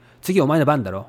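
standard Tokyo Japanese, ending on "だろ"; Tokyo dialect. Shown as a demonstration. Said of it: "That's Tokyo dialect".

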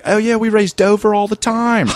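put-on high, laughing local accent; laughing Delaware guy. Comic imitating a Delaware NASCAR fan, high and laughing. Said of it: "this one guy's like".

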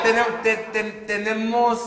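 imitating a stutter; stumbling over the word tenemos; mock stutter. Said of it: "Así, güey".

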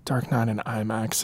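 reverent whisper. Real, not acted. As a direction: hush it like sacred. Reverent whisper about film.

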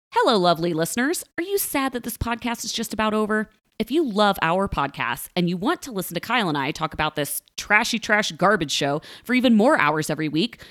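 friendly, rehearsed plug to listeners; podcast promo read. Acted. Host asks listeners to sign up, scripted promo read. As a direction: read it out like a sponsor spot.

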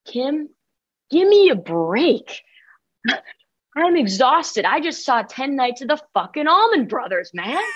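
tired, half-whispered comeback to a teacher; exhausted teen talking back to her teacher, mild snap; mild retold snap. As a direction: give me a break, lightly snapping. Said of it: "your girl snapped and I just said".

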